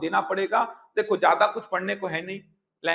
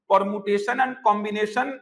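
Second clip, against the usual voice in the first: slow careful enunciation; much slower than usual. Shown as a demonstration. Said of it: "teacher spelling out a term".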